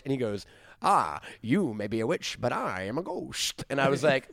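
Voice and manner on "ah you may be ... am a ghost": slow, swooping mock Brahmin accent. Imitating an actor's line to a witch, hammy Brahmin accent. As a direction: draw out each phrase in an affected old Brahmin accent. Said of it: "this exact line delivery happens".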